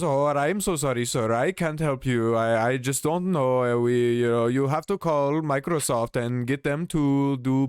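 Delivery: mimicking an agent passing the buck; mock apologetic agent. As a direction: ham up the helpless sorry.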